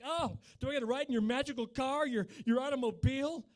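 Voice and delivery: sarcastic gushing; mock amazement. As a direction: act like a kid dazzled by a car. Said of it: "Like, I haven't ridden in a car before".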